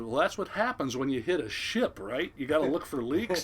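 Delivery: deadpan, matter-of-fact reply; unbothered deckhand quote; real casual. Retold or imitated. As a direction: toss it off as if it were obvious. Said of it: "real casually".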